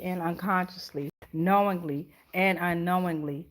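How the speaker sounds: steady, measured affirmation prayer; closing prayer. Acted. Closing the live stream's portals with a protection prayer. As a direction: declare each line as a spiritual rebuke.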